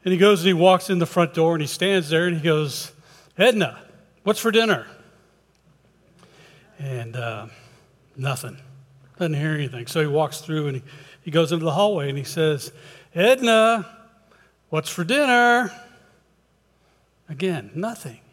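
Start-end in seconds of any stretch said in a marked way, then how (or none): 3.4-4.9 raised, higher call to someone in another room. Acted. Husband calls to wife from the front door, calling out. 13.1-15.7 higher, sing-out call down the hall. Acted. Husband calls to wife from the hallway, calling out.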